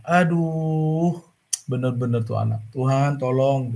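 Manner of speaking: mild, slowed lament to God; a father half-crying over his ruined car; a touch of a father's tearful prayer to God. Acted. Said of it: "Ayahnya nangis".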